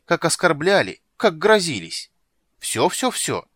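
loud, high angry squeak; angry squeaky rat. Acted. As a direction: squeak threats like a furious rat. Rat continues threats.

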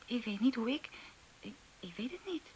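halting, helpless whisper. Acted. Girl falters under the teacher's pressure, whispering. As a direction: trails off in a whisper.

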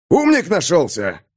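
scornful soldier's sneer; sneering rider voice. Acted. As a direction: sneer it like a brute.

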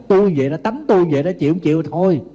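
hot-tempered person rebuffing advice, fast mock snap; mock snapping back. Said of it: "họ còn nạt lại".

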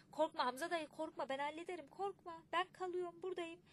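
put-on calm the old driver, eagerly and a bit loud; eager reassurance. A narrator's reading. (heyecanlı, güven veren ses)

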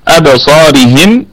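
slow أبصارهم with the ص vowel lengthened; tajweed demo. Shown as a demonstration. Teacher recites أبصارهم slowly to the class. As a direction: stretch the ص in أبصارهم. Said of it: "نقف عليها بوجه واحد بالسكون".

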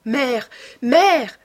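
high, loud cry to her mother. A narrator's reading. Daughter calling urgently to her mother, crying out. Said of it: "s'écria-t-elle".

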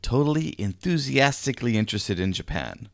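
loud, measured podcast opener; podcast intro. Shown as a demonstration. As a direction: announce the show with deliberate emphasis.

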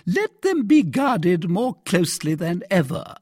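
high-pitched stern order; commanding commissary. A narrator's reading. Commissary ordering the guards, sternly commanding.

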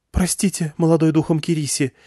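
high, meek, deferential plea; bow your head as you say it; the girl humbly apologizing to the elder; respectful apology. A narrator's reading. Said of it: "сказала та почтительно".

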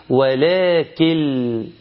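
slow chanted "ولكن" with L replacing the final N; N dropped into L. Shown as a demonstration. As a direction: draw out "ولكن" as "walaakill", ending on L. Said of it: "جبنا نون الساكنة شلناها خالص". (مدّ "ولكن" ونطق نونها لامًا)

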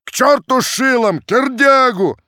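very high, loud clashing shouts; crowd uproar. A narrator's reading. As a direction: bellow each name as a chant. Crowd chanting names in uproar.

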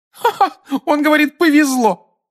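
put-on very high laughing young woman; high-pitched amused exclamation. A narrator's reading. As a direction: burst out laughing as you repeat it. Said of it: "рассмеялась женщина".

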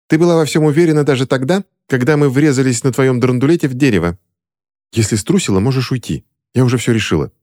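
выше, с вызовом; настоять на своём; упрямая Кристина. A narrator's reading. Кристина отвечает подругам. (Кристина спорит с Дороти)

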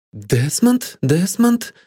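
questioning echo, rising in pitch; puzzled repetition with rising tune. A narrator's reading. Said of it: "эхом отозвалась она".

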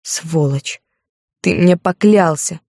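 slow, choked accusation while weeping; through sobs. Acted. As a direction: spit it out between sobs. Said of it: "захлёбываясь в рыдании".

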